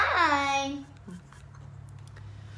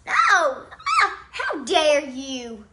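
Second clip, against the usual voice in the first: hammed-up, slow how dare you; mock outrage; 5 dB louder, much slower than usual. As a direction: play the wounded diva. Mock betrayal drama.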